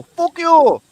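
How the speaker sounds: high yelled fuck you; mock Japan yell. Voicing Japan yelling at censors. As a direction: scream it as Japan, indignant. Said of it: "So Japan go".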